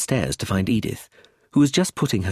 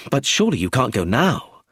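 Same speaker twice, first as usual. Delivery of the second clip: surprised; 3 semitones higher, 3 dB louder than usual. Acted. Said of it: "I said with surprise".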